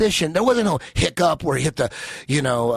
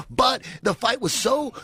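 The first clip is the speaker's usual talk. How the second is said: normal talking voice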